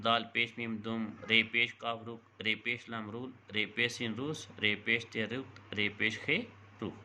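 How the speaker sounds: steady drill cadence, one syllable at a time; spelling drill. Shown as a demonstration. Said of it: "ایسے الفاظ کا چناؤ کر لیں".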